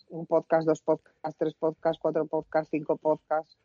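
plural "podcasts" said like the singular "podcast", numbers stressed; counting demo. Shown as a demonstration. Showing the plural stays unchanged, counting it off. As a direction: count one to five, same "podcast" every time. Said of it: "El plural será el singular".

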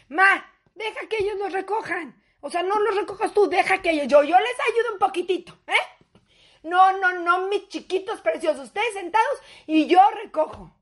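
sugary grandma coaxing, laughing; a lightly voiced sweet granny; mock grandma. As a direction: play the doting grandmother. Comedian voices her grandma mother.

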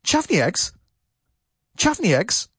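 "Chavny eggs" high, squashed into one word; run together as one word. Shown as a demonstration. Teacher repeats dictation for learners, words run together. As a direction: say "Chavny eggs" as one quick slurred chunk. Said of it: "I'll repeat it one more time".

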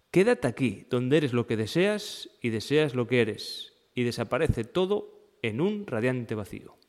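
measured, lilting poetic reading; poem reading. Acted. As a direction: read it as a contemplative text, phrase by phrase with pauses. Reads a contemplative poem aloud. (lectura poética y contemplativa)

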